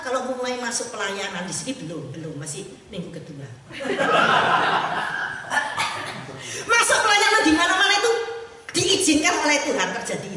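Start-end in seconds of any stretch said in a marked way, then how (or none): 3.5-6.6 breathy, high burst of laughter; hearty laugh. Real, not acted. Preacher laughing at his own remark about his eyes, hearty. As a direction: laugh out at your own joke.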